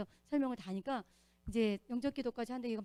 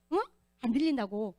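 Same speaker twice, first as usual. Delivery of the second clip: feigned deafness; 7 dB louder than usual. Retold or imitated. Imitating the old woman loudly pretending not to hear. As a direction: play deaf, shout back like you missed it.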